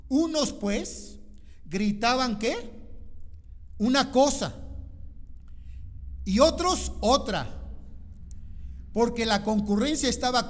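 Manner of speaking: loud high reading of the riot; loud dramatic reading. Acted. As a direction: read it like the riot itself. Reading the Ephesus uproar.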